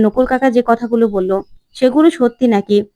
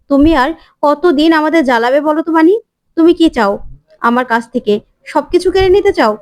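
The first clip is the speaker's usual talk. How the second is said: accusing; 3 semitones higher than usual. Acted. Ishani accusing Bani.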